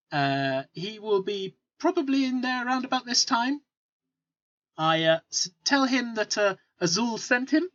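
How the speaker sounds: a hint of a helpful trader, pitch often lifted; helpful merchant, lightly acted; lightly voiced merchant. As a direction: lightly play an obliging local giving directions. Game master plays a merchant.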